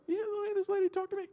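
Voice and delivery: high put-on voice of the rude lady; mimicking the Boston lady; mock northern lady. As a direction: squeak it out like the snooty lady.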